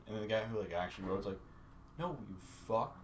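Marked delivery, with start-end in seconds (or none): 2.0-3.0 high-pitched shouted rant, laughing; high yelling God. Pretend. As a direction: yell it as an exasperated deity.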